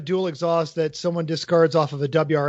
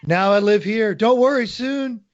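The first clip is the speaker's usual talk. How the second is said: put-on old car voice; 3 semitones higher than usual. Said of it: "all the other cars are telling your N S X lies".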